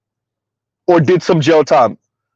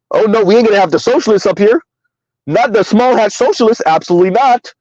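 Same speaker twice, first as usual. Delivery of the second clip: mock refusal, pitched a little higher; imitating party insiders; 4 semitones higher than usual. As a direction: lightly play a party boss vetoing someone. Acts out party rejecting the socialists.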